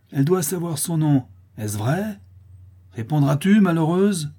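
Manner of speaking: high, insistent demand; crying out. A narrator's reading. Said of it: "s'écria la laitière". (interpellation criée, véhémente)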